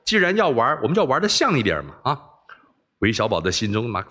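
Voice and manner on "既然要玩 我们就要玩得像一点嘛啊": pleased praise. Acted. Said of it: "称赞说".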